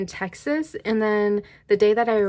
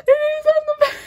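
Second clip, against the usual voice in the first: very high, louder, half-crying squeal; excited squeal; 7 dB louder, faster than usual. Real, not acted. Fan finds the name on the card, shrill excited squeal. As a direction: squeal it out like a startled bird. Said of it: "That probably just sounded like a bird".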